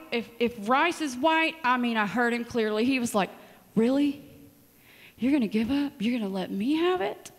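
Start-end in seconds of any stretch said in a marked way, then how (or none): 3.7-7.3 mock surprised, then high loud "Finally! Praise the Lord!"; God celebrating. God answers her quitting with a loud high mock celebration. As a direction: play God cheering sarcastically. God's voice retold.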